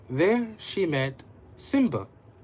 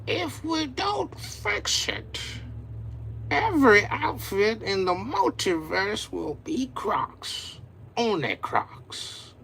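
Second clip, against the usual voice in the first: dire warning; 7 semitones higher, slower than usual. Acted.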